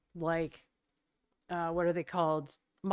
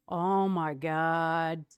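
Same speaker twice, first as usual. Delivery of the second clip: awestruck gasp; 3 semitones lower, much slower than usual. Real, not acted. Opening a guitar from a viewer.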